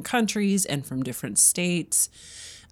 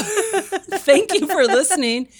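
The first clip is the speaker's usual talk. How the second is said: slow, higher, laughing thank-you; radio host voice; 13 semitones higher, 5 dB louder, slower than usual. Pretend. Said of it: "I felt like a real radio personality".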